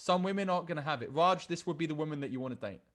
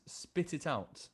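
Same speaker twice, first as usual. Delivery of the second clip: slow quiet demand; 4 dB quieter, slower than usual. Acted. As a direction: spit it out, slowed and pulled back. First of two takes.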